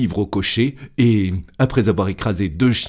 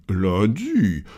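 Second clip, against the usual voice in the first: composed, matter-of-fact correction; calm gentleman voice; unruffled master. Acted. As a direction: answer coolly, without any fluster.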